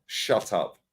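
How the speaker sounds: short, matter-of-fact put-down, no shouting; understated, blunt shutdown; blunt dismissal. Retold or imitated. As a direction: say it bluntly and leave it there. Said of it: "I'll just say it blunt".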